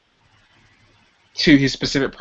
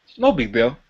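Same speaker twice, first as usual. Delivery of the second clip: disarming casual; 2 semitones lower than usual. Shown as a demonstration. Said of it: "a disarming tone".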